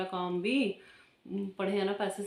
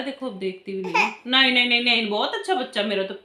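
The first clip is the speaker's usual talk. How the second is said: ordinary talk, nothing marked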